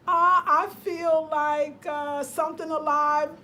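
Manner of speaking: slow, choked voice; near tears. Real, not acted. Vlogger telling viewers the energy she feels, tearful. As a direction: let the grief catch in the throat. Feeling the animal's death.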